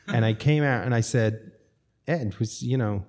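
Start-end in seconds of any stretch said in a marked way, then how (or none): 2.1-3.0 hammed-up American accent, lifted on dude. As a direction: put on your best American dude accent. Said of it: "My best, uh, American accent".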